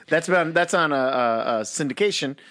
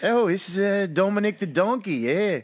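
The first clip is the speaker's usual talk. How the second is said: badly faked Aussie accent, a bit higher; hammy, unconvincing Australian; terrible Australian accent; 4 semitones higher than usual. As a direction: attempt an Australian accent and miss. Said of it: "terrible Australian".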